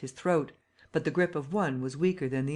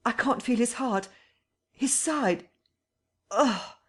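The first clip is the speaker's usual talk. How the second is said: shocked disgust; 8 semitones higher, slower than usual. Acted. Feeling the unseen body.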